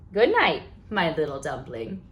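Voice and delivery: tuck her in gently; tender goodnight. Acted. Mom says goodnight tenderly.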